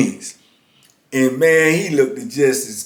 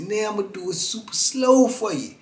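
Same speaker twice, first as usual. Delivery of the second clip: hustler patter; 5 semitones higher, 6 dB quieter than usual. Retold or imitated.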